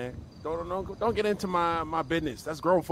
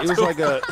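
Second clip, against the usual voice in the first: clown voice; 3 semitones lower than usual. Acted. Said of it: "There's your clown voice".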